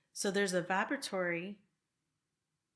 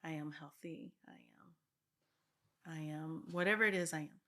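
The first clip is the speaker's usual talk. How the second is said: affirmation demo. Shown as a demonstration. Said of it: "so I bring health".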